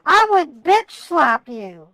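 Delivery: slow, deliberate threat. Real, not acted. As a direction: say it slowly and menacingly. Threatening the agent.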